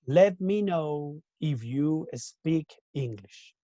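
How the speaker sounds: slow, deliberate formal request; formal example. Shown as a demonstration. Teacher modelling a formal indirect question, slow.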